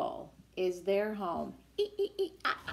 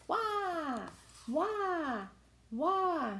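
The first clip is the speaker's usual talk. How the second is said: whale call; 8 semitones higher, much slower than usual. Acted. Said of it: "whales in the book".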